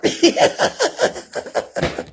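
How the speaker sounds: real breathy, voiceless laugh. Real, not acted. Laughs at own remark about being somebody's mama.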